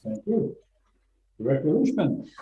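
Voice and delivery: muffled, boomy room sound; like talking from inside a fishbowl. Real, not acted. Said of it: "you kinda sound like you're in a fishbowl to us".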